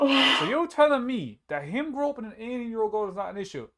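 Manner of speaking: retelling a nightclub standoff, challenging the friends indignantly; retold indignant challenge. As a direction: throw the question back at them, outraged. Confronting the groper's friends, retold.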